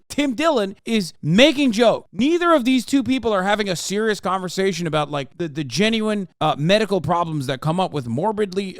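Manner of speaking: loud exasperated rant at chat; wild unhinged ranting. Real, not acted. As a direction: yell it out, fed up.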